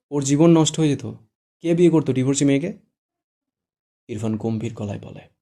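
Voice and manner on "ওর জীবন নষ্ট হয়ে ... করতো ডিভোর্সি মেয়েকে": annoyed. Acted. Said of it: "শুদ্ধ বিরক্তি কণ্ঠে বলে".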